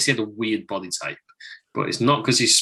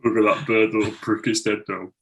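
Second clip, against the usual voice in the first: hushed nature documentary. Pretend. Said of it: "imagine him narrating, like, a nature documentary".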